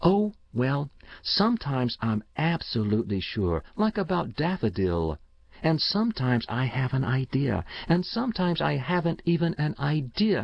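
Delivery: put-on a keen boy talking up his system; eager young boy. Boy Paul voiced by narrator.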